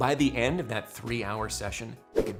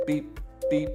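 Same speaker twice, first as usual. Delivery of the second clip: short higher beep sounds; imitated beeps; 4 semitones higher than usual. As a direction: mimic the countdown beeps. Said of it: "you get three beeps".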